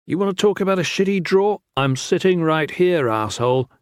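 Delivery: fast, high, irritated retort; angry snap. A narrator's reading. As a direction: snap back in annoyance. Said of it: "Valin snapped".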